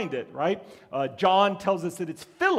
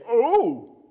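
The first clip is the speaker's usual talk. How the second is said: mock wide-eyed surprise; 2 semitones higher, 4 dB louder, slower than usual. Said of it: "get wide-eyed maybe and say".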